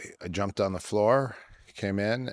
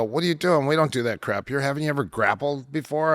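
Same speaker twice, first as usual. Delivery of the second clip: high-pitched disbelieving "what are you doing"; retold outraged shout; 6 semitones higher, faster than usual. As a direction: mimic the shocked judo guys, pitch jumping up. Judo guys scold newcomer again.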